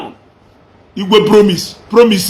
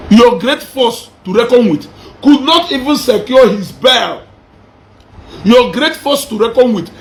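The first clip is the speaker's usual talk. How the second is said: taunting shout; 2 semitones higher than usual. Real, not acted. Vlogger jeering at Ijele's fans, shouting the taunt. Taunting a fallen rival, repeated.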